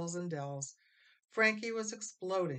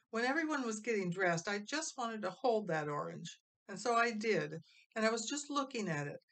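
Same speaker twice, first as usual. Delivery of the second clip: put-on higher, fast, anxious boy voice; boy pleading; 6 semitones higher than usual. Frankie explaining to Ma, higher and hurried. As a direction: rush the excuses out.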